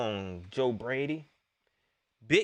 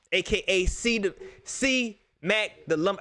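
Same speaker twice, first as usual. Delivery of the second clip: stumbling slowly; 2 semitones higher, slower than usual. Real, not acted. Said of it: "I can't even say it".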